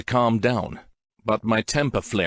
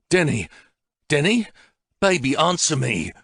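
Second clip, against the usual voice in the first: roaring into phone; 7 semitones higher than usual. Acted. Man shouting his missing girlfriend's name into the phone. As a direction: yell for her down the line, desperate. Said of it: "I roar down the phone".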